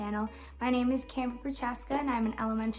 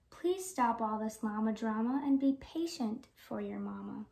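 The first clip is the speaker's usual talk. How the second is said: gentle; 3 semitones lower, 6 dB quieter than usual. Acted. Soothing the baby llama.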